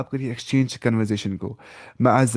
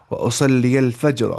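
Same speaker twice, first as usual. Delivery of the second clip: واصلی الفجر said slowly and a bit louder, each word spaced; slow model reading; 4 dB louder, slower than usual. Shown as a demonstration. Teacher modelling واصلی الفجر slowly for students. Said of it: "ایسے بولنا ہے".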